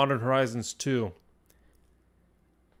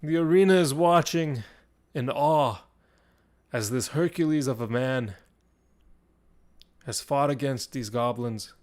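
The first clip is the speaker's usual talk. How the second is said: dramatic telling that settles down from a raised start; game master narration. Acted. Game master describes the arena watching the fighter, dramatic narration. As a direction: narrate in spaced, weighty phrases.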